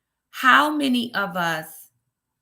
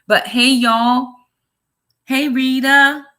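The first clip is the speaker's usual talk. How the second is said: loud greeting; 5 semitones higher, 9 dB louder, slower than usual. Real, not acted. Greeting live viewers.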